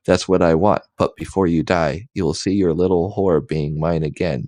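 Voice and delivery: mild mock shout. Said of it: "shouted again".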